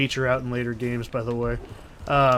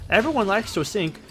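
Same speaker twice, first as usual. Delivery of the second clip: Queensland accent with altered vowels; 6 semitones higher than usual. Shown as a demonstration. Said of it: "I was going for a Queensland accent".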